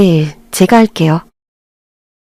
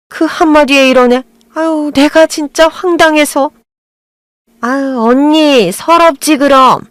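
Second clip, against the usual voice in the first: fussing aunt; 5 semitones higher than usual. Acted. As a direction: drag the words out in mock disbelief.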